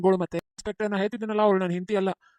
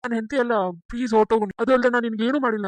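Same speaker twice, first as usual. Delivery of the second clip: louder, begging desperately; loud pleading; 5 dB louder than usual. Acted. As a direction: plead loudly for her to go. Husband begging imposter wife leave.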